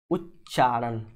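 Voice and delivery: उच्चारण low and split, उच् then चारण; writing-along pronunciation. Shown as a demonstration. Teacher writing the word for students, उच्चारण low and broken in parts. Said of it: "यहाँ पर हम लिख देते हैं".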